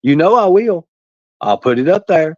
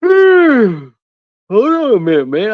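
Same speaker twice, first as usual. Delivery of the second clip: calling out; 9 semitones higher, 5 dB louder, slower than usual. Real, not acted. Streamer calls out, interrupted.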